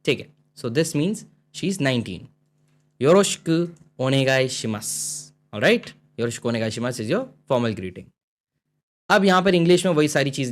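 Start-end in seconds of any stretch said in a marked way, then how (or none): 3.0-5.6 slow reading. Shown as a demonstration. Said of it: "reading dialogue slowly".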